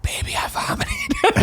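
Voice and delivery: very high, drawn-out strained squeak; hammed-up drunk confession, stretched out and squeaky; mock confession. Friend mimicking him confessing to his partner, high strained mock whine. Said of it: "Do that thing where you leaned over".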